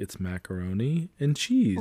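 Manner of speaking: put-on sweet, pleasant, sing-song, slow voice. Retelling a friend's reply about making it from scratch: imitating someone saying it very nicely. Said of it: "she said it, like, very nice".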